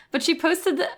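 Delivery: ordinary talk, nothing marked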